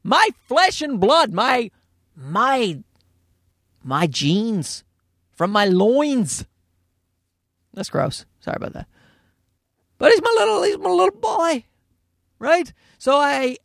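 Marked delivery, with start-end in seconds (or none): 0.0-6.5 protective parent. Retold or imitated. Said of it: "I'm like". 10.0-12.7 doting. Real, not acted. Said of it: "doting on son".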